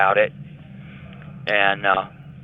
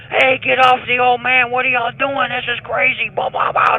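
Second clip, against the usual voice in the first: high, loud protesting yell; screaming inmates; 4 dB louder than usual. Retold or imitated. Inmates yelling at officers beating the old man, high protest. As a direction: holler at the officers to stop. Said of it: "All the inmates started screaming".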